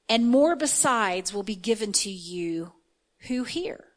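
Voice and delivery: measured, deliberate scripture reading. Acted. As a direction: read the verse out with weight on key words. Reads scripture aloud emphatically.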